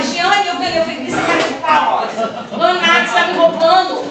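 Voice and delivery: put-on high, loud, indignant kid accusing the teacher of cheating; child crying foul. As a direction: play the outraged child caught losing.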